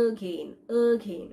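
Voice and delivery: again with a held 'uh' at the start; schwa demonstration. Shown as a demonstration. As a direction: stretch the first vowel of again as 'uh'. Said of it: "এখানে". (again-এর শুরুর 'uh' ধ্বনি টেনে উচ্চারণ)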